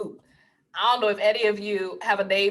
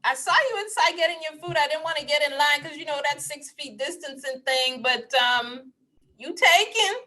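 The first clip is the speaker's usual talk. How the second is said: lightly voiced flirty guy, higher; lightly higher flirt, ending on a rise; hint of a flirting man; 5 semitones higher than usual. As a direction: ask it as a coy pickup line. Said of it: "he's like".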